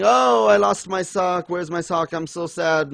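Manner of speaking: hammed-up woe over a trifle; mock lament. Reviewer mocking a character who lost his sock, hammed-up lament.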